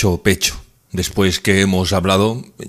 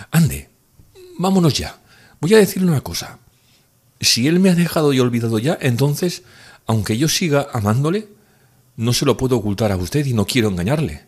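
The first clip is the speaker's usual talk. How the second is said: put-on higher, tender young woman's voice; earnest girl, pitched up; Nastenka, confessing; 5 semitones higher than usual. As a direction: pour out a nervous confession.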